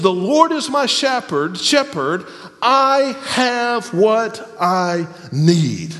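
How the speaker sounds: "I have what I need" drawn out very slowly; slow emphatic reading. Shown as a demonstration. Preacher stressing what the verse really says, very slow. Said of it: "What it says is".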